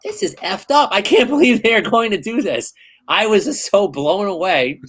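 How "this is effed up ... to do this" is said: much higher, speeding up in alarm; retold panic. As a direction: replay the theater freak-out, rushing. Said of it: "I'm like".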